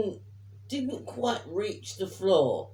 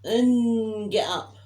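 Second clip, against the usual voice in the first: firm wake-up order; 2 semitones higher, 6 dB louder, much slower than usual. Retold or imitated. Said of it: "I went".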